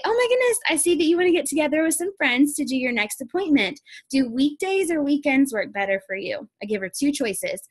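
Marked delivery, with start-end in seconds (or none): 0.0-6.5 high, gushing friendly sales pitch; mock-delighted consultant welcoming a friend's booking; bubbly excited hostess. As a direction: sweep her along with cheerful enthusiasm. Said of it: "and then I say".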